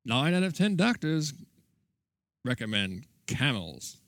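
lightly voiced vintage ad slogan; slow old-timey pitchman, understated; chipper 1950s ad. Mock old cigarette ad.

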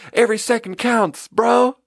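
frantic urging. Retold or imitated. Waiter pressing the chef for speed, high and frantic. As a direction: urge it like the clock is killing you.

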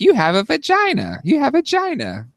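put-on high kid voice; little boy naming. Toddler naming body parts to family, high kid voice. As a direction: play the toddler pointing it out. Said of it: "it was like".

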